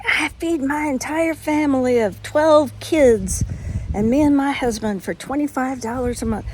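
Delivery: mock a boastful YouTuber in a slight Southern accent. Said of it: "why I did that Southern accent".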